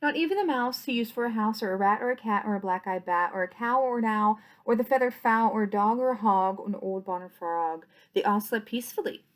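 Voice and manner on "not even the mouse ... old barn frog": lilting, rhythmic picture-book reading; reading to children. A narrator's reading. Reading a bedtime picture book to toddlers, lilting rhyme. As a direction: read the rhyme out to small children.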